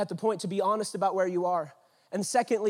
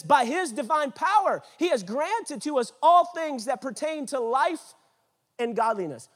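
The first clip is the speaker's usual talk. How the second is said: slow, higher emphatic reading; emphatic scripture reading; 3 semitones higher, 4 dB louder than usual. Real, not acted. Preacher reads Peter's verse to the congregation, emphatic.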